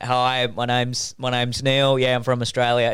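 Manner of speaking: slow, relaxed Australian greeting; affable, laid-back Aussie drawl, slightly low; easygoing Aussie. Acted. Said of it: "it's just an easygoing accent".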